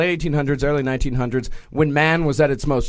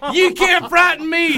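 higher, raised defiant shout; 12 semitones higher than usual. Retold or imitated. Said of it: "Spencer shouted".

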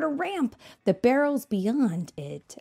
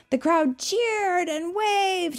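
excited narration; 12 semitones higher, 4 dB louder, slower than usual. A narrator's reading. Narrating crowd cheering.

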